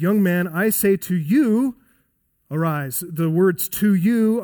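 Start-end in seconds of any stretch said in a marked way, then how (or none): 0.0-3.0 slow, firm commanding call to a dead man. Acted. Jesus commanding the dead young man to rise, slow and firm. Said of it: "With the voice of command". 3.7-4.4 "to you" pushed higher and a little louder; emphatic "to you". Shown as a demonstration. Preacher showing the emphatic words, "to you" stressed. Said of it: "are in an emphatic position".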